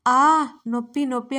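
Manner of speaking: a loud yelp of pain; girl crying out after being dropped on the bed. A narrator's reading. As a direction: ham up the hurt with a loud cry. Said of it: "గట్టిగా అరిచి గోల చేస్తుంటే".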